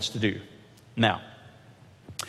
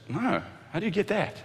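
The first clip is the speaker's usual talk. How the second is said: higher, puzzled voice; God baffled; 7 semitones higher, 5 dB quieter than usual. Pretend. God voiced answering misreaders.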